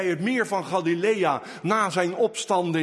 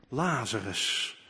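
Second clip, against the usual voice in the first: lower, softer, slow calling of Lazarus; hushed call; 9 semitones lower, 6 dB quieter than usual. Retold or imitated. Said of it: "maar hij riep".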